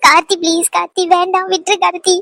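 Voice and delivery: tearful, urgent begging; crying out. Acted. Woman begging Karthi to stop, crying out. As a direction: cry out to be let go. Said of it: "இப்படி கத்தலாம் கூடாது".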